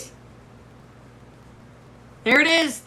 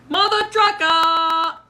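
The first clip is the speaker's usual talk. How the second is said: mock exasperated curse; 6 semitones higher, 3 dB louder, slower than usual.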